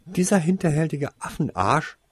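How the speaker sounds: high-pitched incredulous insult; disbelief. A narrator's reading. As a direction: question it in outraged disbelief. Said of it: "konnte es Alec nicht glauben".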